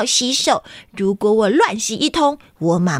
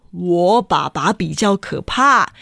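put-on childish bickering building up; two children arguing whose dad is scarier; escalating squabble; 4 semitones lower than usual. Two kids escalate argument.

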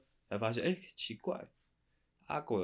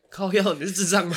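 loud laughing jab; 10 semitones higher, 12 dB louder than usual. Real, not acted. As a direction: tease through laughter. Laughing mock insult.

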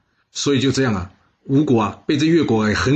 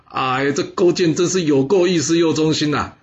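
delighted; 4 semitones higher than usual. Acted. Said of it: "夫差一听开心呐".

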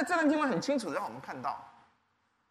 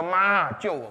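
mock cry for help; 2 semitones lower, 6 dB louder, slower than usual. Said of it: "便赶快喊着说：".

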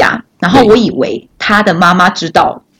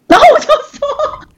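high laughing voice, slower; slower than usual. Real, not acted. Speaker laughing while retelling the blunder, giggly. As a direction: laugh through the words.

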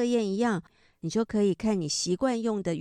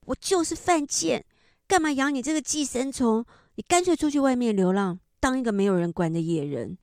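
higher pitched mock rant, getting louder; furious roaring; 4 semitones higher, 4 dB louder than usual. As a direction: imitate a mother hurling insults in fury. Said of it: "很愤怒的咆哮说".

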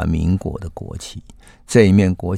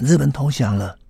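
retold street shout; 7 semitones higher than usual. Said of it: "沿着街道大声喊".

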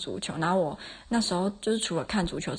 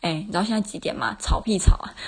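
imagined fierce scolding; 2 semitones higher, 5 dB louder than usual. Pretend. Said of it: "我要就是很凶讲说".

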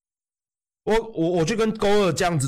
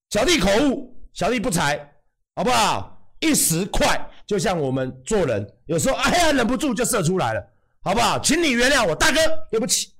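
fake apology; 3 semitones higher than usual.

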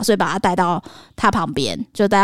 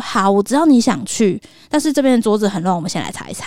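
calm and empathetic. Shown as a demonstration. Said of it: "你要去同理他".

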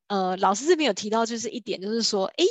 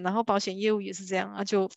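ordinary talk, nothing marked

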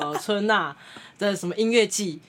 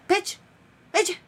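put-on slow, higher accented English; imitated guide; 10 semitones higher than usual. Guide urging the tourists to pose, slow mock English. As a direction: mimic the local guide slowly.

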